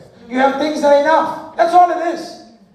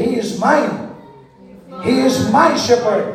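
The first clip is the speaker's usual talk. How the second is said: heartfelt declaration; slower than usual. Shown as a demonstration. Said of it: "hold my heart and say".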